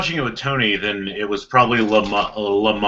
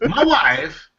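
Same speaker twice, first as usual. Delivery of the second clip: laughing. Real, not acted. Laughing rejoinder.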